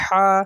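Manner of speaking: short pharyngeal "ہا"; from the throat. Shown as a demonstration. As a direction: push a thin Arabic h out in "ہا". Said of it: "اندر سے آواز آئے گی".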